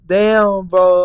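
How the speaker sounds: loud, high exclamation; retold hyped amazement; awed reaction. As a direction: blurt it out, blown away. Retelling his awed reaction at concert.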